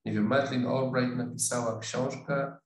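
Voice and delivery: usual speaking voice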